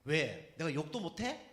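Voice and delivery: retold defiant retort. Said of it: "뭐라는 줄 압니까?".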